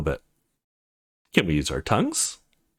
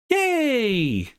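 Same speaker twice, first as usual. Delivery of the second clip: high squeal of delight; excited cheer; 13 semitones higher than usual. Acted. Eager girl cheering at the start of the kissing lesson, high excited squeal. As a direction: cheer it like a thrilled kid. Eager student about to kiss.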